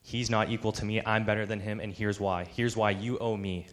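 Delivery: understated indignant complaint; frustrated, entitled. Acted. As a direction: make the case with a touch of grievance. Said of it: "He's frustrated".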